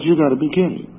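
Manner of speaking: retold high-pitched disbelief. Speaker acting out his reply to news of a friend's death, disbelieving. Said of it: "you don't accept something like that".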